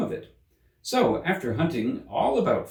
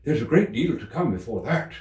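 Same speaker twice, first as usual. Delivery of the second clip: the rabbit; 4 semitones higher than usual. A narrator's reading. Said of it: "the rabbit hastily interrupted".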